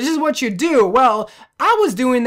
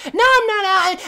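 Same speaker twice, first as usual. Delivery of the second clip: high-pitched mocking protest into a silly laugh; annoying kid imitation; 9 semitones higher than usual. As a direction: mimic a kid's squealed denial. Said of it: "he legit sounded like that".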